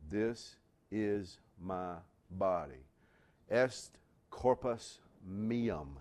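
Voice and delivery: slow, hushed, reverent; solemn words of institution. Retold or imitated. Preacher quoting Jesus at the Last Supper, slow and reverent. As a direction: say it as at the altar.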